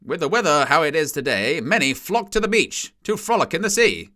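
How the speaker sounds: put-on a light old-time newsreel lilt; 1950s narrator. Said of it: "narrate over news stories".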